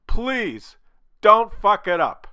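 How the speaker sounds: ordinary delivery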